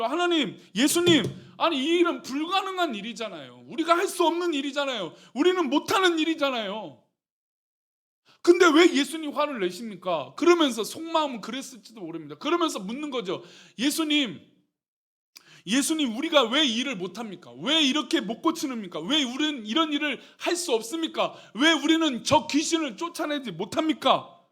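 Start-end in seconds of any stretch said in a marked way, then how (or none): 0.0-10.3 pleading, mildly indignant complaint; aggrieved protest. Acted. Disciples protesting to Jesus about an impossible task, aggrieved. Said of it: "제자들이 입장에서도 이해가 안 되죠". 13.8-24.4 insistent, pleading string of whys; aggrieved questioning. Acted. Disciples asking Jesus why they failed, aggrieved. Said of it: "억울한 마음과 여러 가지 마음이".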